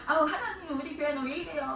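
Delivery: upset complaint. Acted. Preacher imagining herself grumbling to God about the church, upset. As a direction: act out a whiny grumble, starting high. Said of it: "속상해하고".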